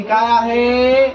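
slow, held last word; drawn-out quiz question. Pretend. Teacher asks the child to guess, drawn out. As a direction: stretch the question out slowly.

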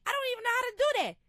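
pleading, at a loss; exasperated self-doubt. Retold or imitated. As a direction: throw up your hands, voice climbing. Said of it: "I'm like".

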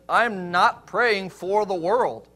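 slow, deliberate weight on "not"; emphatic NOT. Retold or imitated. Preacher repeating what Jesus said, slow emphatic "not". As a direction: stretch the line, stressing "not". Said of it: "an emphasis on that".

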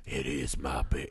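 lightly voiced old hillbilly mom; hillbilly woman. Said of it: "But when she's like".

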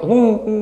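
high-pitched mock sob; imitated weeping. Preacher imitates Bilal weeping on horseback, mock sobbing. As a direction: act out a drawn-out "hu hu" wail. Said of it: "Duk tak kuda teriak".

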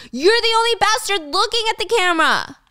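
high-pitched acted scream; heated, high comeback; screaming back. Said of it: "June screaming back".

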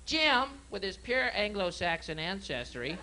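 lightly voiced wildlife show host; nature documentary. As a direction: narrate like an old nature show. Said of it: "This is Marlon Perkins".

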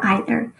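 "either" with a long I, EYE-ther; long-I pronunciation. Shown as a demonstration. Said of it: "two ways people, um, pronounce that word".

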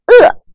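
鹅 rising sharply high. Shown as a demonstration. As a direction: say 鹅 with a steep rise. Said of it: "teacher models second tone". (鹅 读第二声，往上扬)

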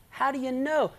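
loud, pointed challenge; challenging question. Retold or imitated. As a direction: demand it of them. Preacher challenging the believer.

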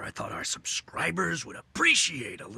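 hushed, breathy whisper; a nervous near-whisper to his wife. Acted. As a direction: keep it secret, barely voiced. Anxious talk about hiding crime.

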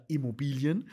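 Immobilien set apart with emphasis; stress on Immobilien. Real, not acted. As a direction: stress the word Immobilien deliberately. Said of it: "Ich betone aber wieder".

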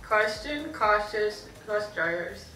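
words slurred by a stretched mouth; lips stretched. Real, not acted. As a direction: push it out with lips held wide. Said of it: "hurts my gums".

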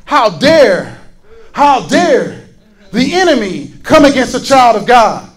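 measured indignant challenge that builds. Acted. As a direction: voice righteous offence, gathering force with each repeat. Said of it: "we need to be a little bit indignant".

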